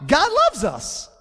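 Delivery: "God loves us" slowly, leaning hard on "loves"; proclaiming God loves us. Shown as a demonstration. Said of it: "confess with our mouth".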